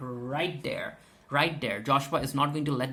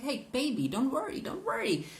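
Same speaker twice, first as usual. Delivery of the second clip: higher, sugary mock reassurance; mock sweet soothing; 10 semitones higher than usual. Janine coos to Julia, mock sweet and high. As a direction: coo it like a fake-sweet mother.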